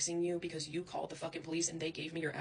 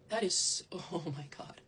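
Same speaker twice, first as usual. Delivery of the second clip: whispered disbelief; slower than usual. Real, not acted. Whispered laugh.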